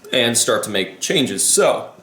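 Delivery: talking through hiccups; hiccuping. Real, not acted. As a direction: hiccup interrupting speech. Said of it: "I'm sorry, I'm hiccuping".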